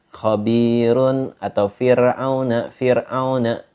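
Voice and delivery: Khabirun and fir'auna with light r; thin ro. Shown as a demonstration. Teacher summing up tarkik, thin ro in Khabirun, fir'auna. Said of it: "ditipiskan saja".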